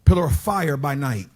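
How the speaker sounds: measured, falling scripture reading; scripture recitation. Acted. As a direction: recite the verse with weight. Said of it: "the Bible said".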